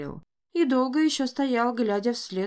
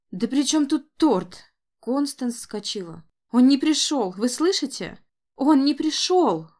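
angry outburst; 5 semitones higher, 5 dB louder than usual. Acted. Констанс вскочила, jilted.

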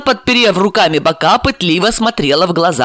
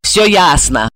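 softer; slower than usual. Acted. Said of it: "уже мягче сказала Марина".

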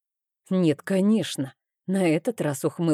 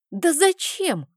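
much higher outcry; shouted question; 11 semitones higher, slower than usual. A narrator's reading. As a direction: cry out in protest. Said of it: "закричала я".

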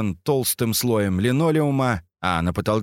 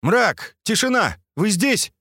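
higher, louder call down the corridor; calling out loudly; 10 semitones higher, slower than usual. Acted. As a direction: shout to be heard. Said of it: "громко поинтересовался скат".

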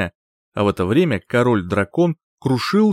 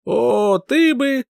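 outraged splutter; 12 semitones higher, much slower than usual. Acted.

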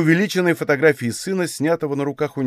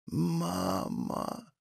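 barely voiced, much softer call; sick child calls her mother in a faint whisper; faint rustling whisper; 4 semitones higher, 12 dB quieter than usual. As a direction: breathe the word out weakly. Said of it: "шелестели маленькие спёкшиеся губы".

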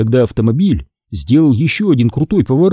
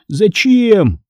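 shouted question; 8 semitones higher than usual. Acted. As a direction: demand an answer from the ghost. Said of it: "закричал я". (крикнуть в отчаянии)

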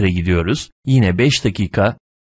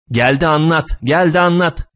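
higher repeated grumble, pitch climbing; exasperated grumbling; 7 semitones higher than usual. A narrator's reading. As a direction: grumble helplessly, more worked up on the repeat. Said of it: "diye söylenip duruyor".

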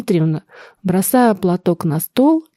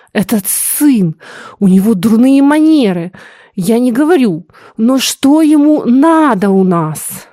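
indignant complaint; 3 semitones higher, 4 dB louder than usual. Acted. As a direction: scold the guest's manners. Princess complains about visitor. (возмущённо, громко и медленно)

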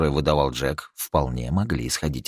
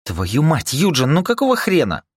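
louder, higher fed-up outburst; exasperated grumble; 11 semitones higher, 6 dB louder than usual. Acted. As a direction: vent the frustration at Eugene. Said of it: "проворчал Рика". (раздражённо, громче)

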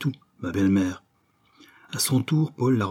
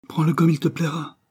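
exasperated cry pitched high; exasperated brother crying out; exasperated outburst; 8 semitones higher than usual. Acted. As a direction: snap back, fed up with her. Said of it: "s'écria Paul excédé".

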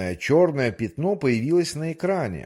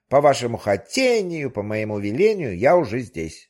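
pike voice; 4 dB louder than usual. Acted. The pike appears.

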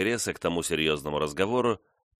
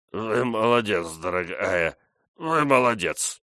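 put-on hiccuping drunk; 3 semitones higher, slower than usual. A narrator's reading. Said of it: "икая, бессмысленно повторял".

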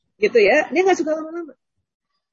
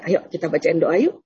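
gentle coaxing; 6 semitones lower than usual. Acted. Voices aunt inviting child to pray.

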